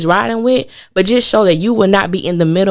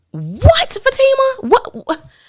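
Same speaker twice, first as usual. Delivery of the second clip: very high, swooping, drawn-out cries. Retelling how you reacted to her, in your voice imitating a rapper. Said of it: "in my rapper voice".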